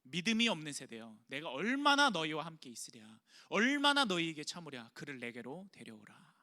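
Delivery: a measured, understated scolding; stern rebuke. Acted. Jesus rebuking his disciples, mildly stern. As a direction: rebuke the faithless generation without shouting. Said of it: "제자들에게 꾸짖는 거예요".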